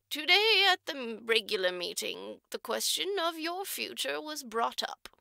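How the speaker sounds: lightly voiced orphanage matron, measured and formal; a hint of a prim matron choosing her words; stern matron. Matron tells Jerusha about the trustee, prim and formal.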